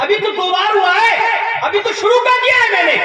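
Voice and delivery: impassioned sermon climax on a mother's sacrifice; full-force preaching. Acted. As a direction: let the mother's devotion pour out at full pitch. Voices mother's impassioned reply.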